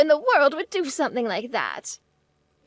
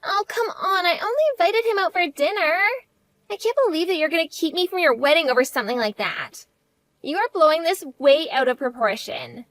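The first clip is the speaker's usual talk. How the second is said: tearful, pleading protest; hurt and angry. Acted. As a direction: near tears, stung and defensive. Banned from sister's wedding.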